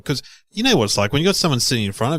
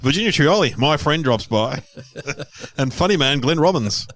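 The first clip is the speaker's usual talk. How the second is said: mock show host; 5 semitones higher than usual. Mock show intro lineup.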